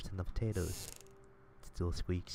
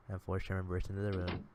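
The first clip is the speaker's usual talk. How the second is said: normal talking voice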